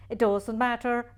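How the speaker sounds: insist, stressing matter. Shown as a demonstration.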